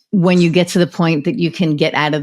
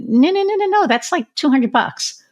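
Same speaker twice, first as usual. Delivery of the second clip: much higher, rushed run of no's, then slowing down; urgent protest; 10 semitones higher than usual. Retold or imitated. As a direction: designer stopping a client from taking cards free, alarmed. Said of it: "And I went".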